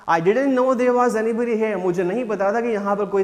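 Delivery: put-on boy caught in a garden he thought was empty; startled exclaim. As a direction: blurt it out in surprise. Startled boy voiced in the play.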